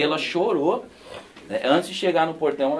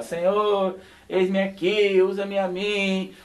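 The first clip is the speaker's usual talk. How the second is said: higher, drawn-out mock prayer; lightly acted plea, stretching the last words; imitated earnest prayer; 6 semitones higher, much slower than usual. Young man at campfire praying to God, imitated earnest prayer. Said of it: "fiz a oração junto com o pastor lá".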